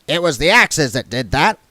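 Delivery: dwarf insisting on his axes; firmly. Acted. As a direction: state it flatly. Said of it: "said Goodmountain firmly".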